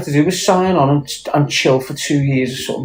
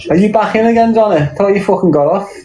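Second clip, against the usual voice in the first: mock surprised teasing; 7 semitones higher than usual. Real, not acted. Teasing Donna who's back in jail.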